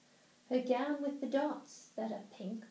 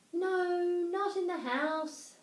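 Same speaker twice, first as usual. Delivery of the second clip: loud, high alarmed fish; a fish's sharp protest; 7 semitones higher, 5 dB louder, slower than usual. A narrator's reading. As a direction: cry out in protest. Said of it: "said the fish in the pot".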